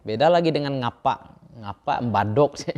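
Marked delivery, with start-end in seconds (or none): 1.6-2.7 coarse Javanese. Shown as a demonstration.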